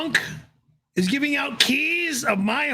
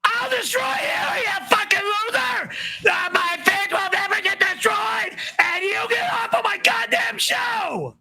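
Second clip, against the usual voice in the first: furious yelling; 8 semitones higher than usual. Real, not acted. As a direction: scream the insults at them. Raging at super chat.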